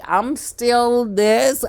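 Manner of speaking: slow, puffed-up self-image; mock vain old man. Mocking the older superior's idea of himself, slow and smug. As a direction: drag it out smugly. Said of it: "you're like".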